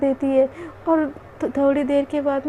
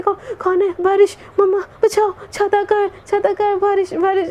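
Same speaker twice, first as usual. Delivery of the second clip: higher-pitched, mildly panicked cry for help; startled panic; 5 semitones higher than usual. Acted. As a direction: play a sleeper jolted awake in alarm. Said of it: "एकदम घबरा के उठ जाती है".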